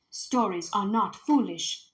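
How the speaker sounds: slow, calm defence; quiet gentle. Acted. Father defending stories to his wife, quiet gentle. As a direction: answer softly but firmly. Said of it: "in his quiet way".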